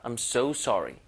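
so leaned on a little; stress on so. Shown as a demonstration. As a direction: tip the weight onto "so" in "I'm so sorry". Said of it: "so에 살짝 강세 주는 게 낫겠죠". (so에 살짝 강세)

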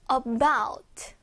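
"about" stressed on the bout; light a-, strong falling -bout in "about"; stress on second syllable. Shown as a demonstration. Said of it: "about의 강세가 있어요".

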